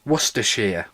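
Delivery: "Worcestershire" as wuss-tuh-sheer, middle syllables dropped; correct pronunciation. Shown as a demonstration. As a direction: say "Worcestershire" the local British way. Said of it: "That's how you say it".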